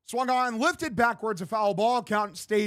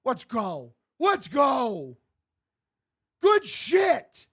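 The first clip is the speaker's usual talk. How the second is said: cheering; slower than usual. Real, not acted. Celebrating the lead run.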